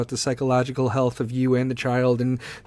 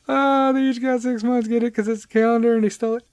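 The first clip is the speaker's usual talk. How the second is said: higher voice, tickled after laughing; amused; 7 semitones higher than usual. Real, not acted. Podcaster explaining his own dad joke, tickled. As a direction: repeat the punchline, delighted with it.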